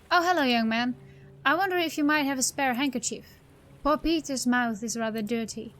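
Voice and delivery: lightly voiced, polite eccentric in a small fluster; fretful muddled eccentric. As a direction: play a courteous, muddled oddball with a touch of worry. Voices a muddled game character.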